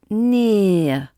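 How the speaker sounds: "near" as one long flat French pure vowel, no glide; French-style near. Retold or imitated. Teacher imitates a French learner saying "near" with a flat vowel. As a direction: flatten "near" like a French speaker. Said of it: "French speaker, you might say".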